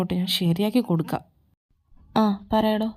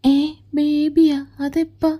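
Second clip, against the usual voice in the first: jealous surprise; 6 semitones higher, 4 dB louder, slower than usual. Acted. Girlfriend shocked at "baby.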